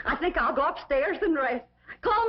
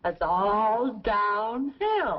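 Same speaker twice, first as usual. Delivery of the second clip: laughing shout; 8 semitones lower, much slower than usual. Acted. Laughing shout during the dance.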